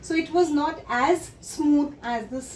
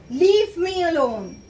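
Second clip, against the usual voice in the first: creature shouting; 2 semitones higher, 5 dB louder than usual. Acted. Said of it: "So who is this shouting".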